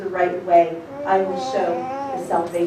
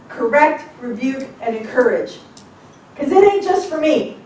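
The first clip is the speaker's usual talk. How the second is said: building shout; 5 semitones higher, 7 dB louder than usual. Real, not acted.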